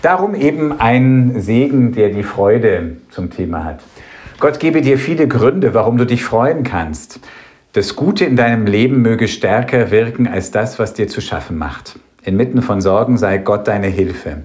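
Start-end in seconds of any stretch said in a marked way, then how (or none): 4.4-14.4 blessing. Acted. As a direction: bless the listeners earnestly. Speaks a blessing.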